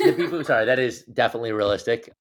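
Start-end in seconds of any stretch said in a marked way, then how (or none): 0.0-0.6 giggling through the words; laughing. Real, not acted. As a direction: laugh while apologizing. Laughs while saying it.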